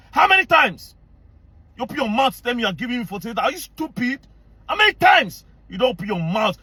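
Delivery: high-pitched, indignant questioning; exasperated, pitch jumping up; angry challenge. Real, not acted. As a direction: demand an answer, really worked up. Angry challenge to his accusers.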